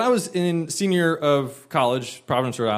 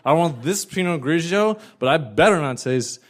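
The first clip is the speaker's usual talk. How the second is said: put-on drunk woman; 3 semitones higher than usual. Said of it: "like it says right in the menu".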